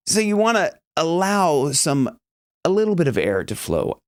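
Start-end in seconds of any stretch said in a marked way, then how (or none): none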